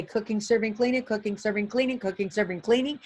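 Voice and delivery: monotonous repeated list; boring routine. Retold or imitated. Cafeteria workers every day, bored repetitive drone. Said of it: "That might be considered boring".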